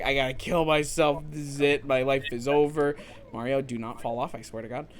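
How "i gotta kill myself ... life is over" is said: understated, lightly voiced self-pity; mild mock despair. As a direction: toss off the despair in a near-normal voice. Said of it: "not enough to be like".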